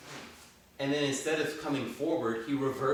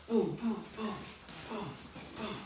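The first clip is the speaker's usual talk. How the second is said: boxing coach calling combos; 8 semitones higher, 5 dB quieter than usual. Shown as a demonstration. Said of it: "calling drill rep".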